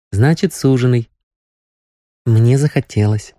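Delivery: put-on a girl recalling her mother's words; young girl, dreamy. Nastya retells mother's advice.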